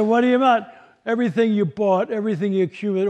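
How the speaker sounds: high, loud disbelief; acted-out dismay at losing it all; indignant protest. Boy protests to his grandmother.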